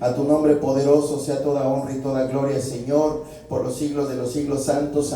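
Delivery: steady, pleading prayer voice calling on the Lord; earnest pastor's prayer, each line closed with Señor; fervent prayer. Acted. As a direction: pray aloud to God for the whole congregation. Pastor leads congregation in prayer.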